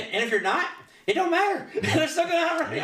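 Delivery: high, giggling retelling; laughing through it. Real, not acted. Son laughing while retelling his dad's advice, giggling. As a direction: laugh the punchline out.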